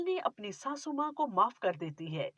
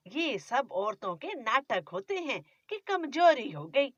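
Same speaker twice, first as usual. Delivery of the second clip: scolding, grumbling mother-in-law; a nagging miser of a mother-in-law; stingy mother-in-law. Acted.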